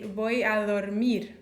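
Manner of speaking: 'Voy a dormir' in a Spanish pronunciation; Spanish example. Shown as a demonstration. Teacher contrasting Spanish with Portuguese, quoting Spanish. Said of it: "in Spanish they say".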